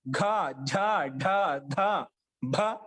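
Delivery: ఘ, ఝ, ఢ, ధ, భ each pressed out with breath; pressed aspirates. Shown as a demonstration. Teacher showing the class ఘ, ఝ, ఢ, ధ, భ, each pressed and aspirated. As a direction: stress each of ఘ, ఝ, ఢ, ధ, భ as a separate aspirate. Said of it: "ఒత్తి పలుకుతాం అంట".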